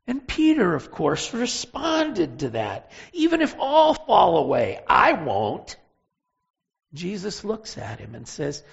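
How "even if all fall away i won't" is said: bold vow. Acted. Peter boasting loyalty to Jesus.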